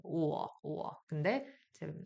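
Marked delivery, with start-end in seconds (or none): 0.0-0.9 오어를 이어서 부드럽게; 오에서 어로 흘러가듯; aw sound. Shown as a demonstration. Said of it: "오어 발음이 나-, 난다". (오어 소리 시범)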